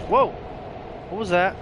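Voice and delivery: sudden high, loud startled yelp. Real, not acted. Streamer startled by a sound in a horror game, yelping. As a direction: jump out of your skin at a noise. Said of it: "Oh my God, that scared me".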